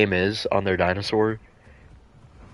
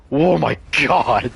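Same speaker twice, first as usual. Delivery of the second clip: excited; 5 semitones higher, 4 dB louder, slower than usual. Real, not acted. Reacting to game chaos.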